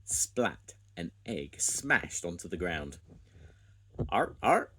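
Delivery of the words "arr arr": high, loud mocking caw; crow laugh. A narrator's reading. Squawk laughing at Spud's broken egg, loud cawing. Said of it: "laughed Squawk".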